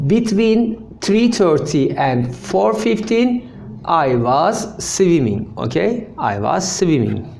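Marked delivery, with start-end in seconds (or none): 0.1-5.5 slow and deliberate, each word spaced out; slow model sentence. Shown as a demonstration. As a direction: say it slowly so the class can follow. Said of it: "teacher models sentence".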